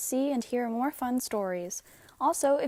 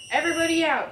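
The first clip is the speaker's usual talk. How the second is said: loud, higher shout; 7 semitones higher, 7 dB louder, faster than usual. A narrator's reading. Lifeguard shouting swimmers out of the water. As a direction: call the swimmers out loudly. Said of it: "he shouted".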